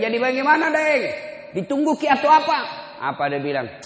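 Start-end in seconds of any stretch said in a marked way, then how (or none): 0.0-2.6 urgent plea. Retold or imitated.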